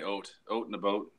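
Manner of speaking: "oat in a boat" with rounded Albertan vowels; "oat" for "out", western Canadian style; Alberta pronunciation. Shown as a demonstration. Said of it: "in, like, Alberta, they say".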